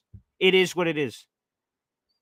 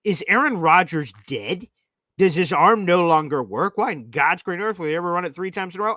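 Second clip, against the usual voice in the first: exasperated rant. Retold or imitated. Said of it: "I said on the postgame show".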